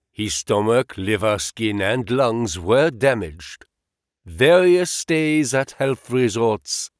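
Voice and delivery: a hint of German listing ailments deliberately; German accent. Engels recounts Marx's illnesses to Holmes in a light German accent. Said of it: "with a German accent".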